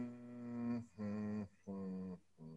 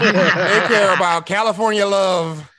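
laughing while talking; 7 semitones higher, 9 dB louder than usual. Real, not acted. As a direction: push the words out through laughter. Laughing through the point.

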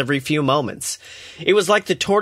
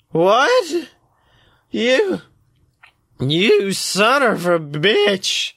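shocked squeak fading to slurred whisper; drunk, outraged, then whispering; drunken slur; 6 semitones higher, much slower than usual. Acted. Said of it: "Dee drunkenly slurs".

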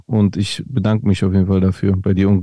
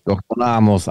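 menacing movie villain voice; booming echoing villain monologue. Acted. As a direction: announce Doktor Namus like a film villain. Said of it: "Klingt wie ein Bösewicht aus so einem, äh, Film".

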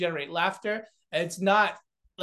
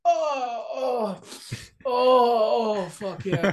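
gasping high cries of pleasure, building to release; ecstatic rush; 6 semitones higher, 4 dB louder, much slower than usual. Retold or imitated. Comic describing the rush of a big laugh, mock ecstatic moans. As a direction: ride the high like a drug hit. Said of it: "it's just like".

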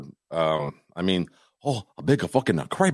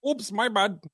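mock apology; 13 semitones higher, 3 dB quieter than usual.

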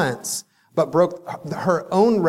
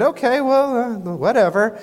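dismissive; 6 semitones higher than usual. Retold or imitated. Kaya dismissive.

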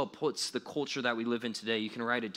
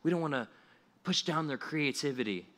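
mocking soft tone; 4 dB quieter than usual. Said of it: "And non-Christians will say".

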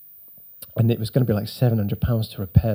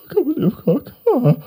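much higher, laughing disbelief; overjoyed teen; 13 semitones higher, faster than usual. Retold or imitated. Teen thanking dad for the car, laughing high joy. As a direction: squeal it through a laugh.

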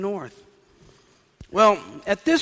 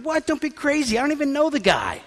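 high-pitched, incredulous brush-off; acted scoffing disbelief, pitched high; indignant denial; 9 semitones higher than usual. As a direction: protest it away in a raised pitch. Peter acts out denying he knows Jesus.

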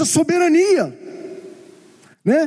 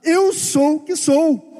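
God's answer; 3 semitones higher, slower than usual. Retold or imitated. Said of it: "Olha a resposta que Deus dá".

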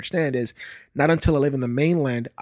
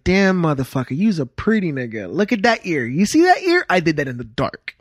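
lightly voiced proud dad, pitch jumping on "ear"; boastful dad. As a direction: imitate a dad boasting about his handiwork. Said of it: "my dad, every time he looks at me".

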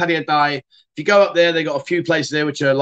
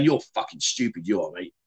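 aggressive; 8 semitones lower, 7 dB quieter than usual. Shown as a demonstration. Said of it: "a much more aggressive one".

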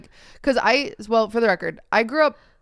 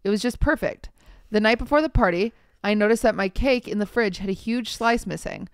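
measured story-reading voice; reading aloud. Acted. Podcast host reading a Reddit post to co-host, reading aloud. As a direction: read the post out evenly.

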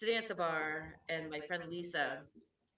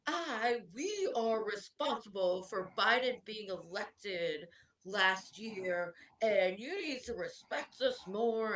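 mock indignant lecture; 3 semitones higher, 3 dB louder, slower than usual. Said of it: "this guy starts, like, lighting into him".

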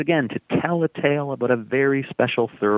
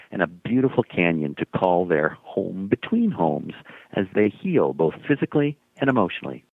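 excited host. Real, not acted. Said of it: "We're so excited".

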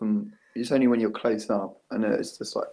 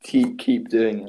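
slow, muffled as if through a face mask; 4 dB louder than usual. Pretend. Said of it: "Slightly muffled through the face mask".

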